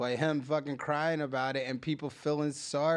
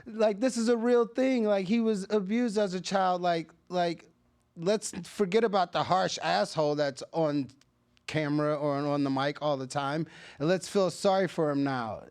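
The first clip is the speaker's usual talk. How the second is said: high, pleading mockery of sympathizers; 5 semitones higher than usual. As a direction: beg in a hammed-up whiny tone. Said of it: "and now everybody's like".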